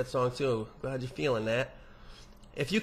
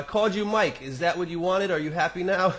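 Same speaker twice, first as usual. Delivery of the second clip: higher, mildly raised mock-temper voice; all-caps outburst; 4 semitones higher than usual. Host reading Mike's all-caps email, mock outburst. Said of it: "That was all in caps".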